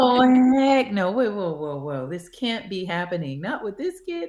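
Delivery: high, loud burst of retold shock; mother replays her panic at the news; shocked outburst. Mother retelling her shock at the kid's words, high alarmed cry.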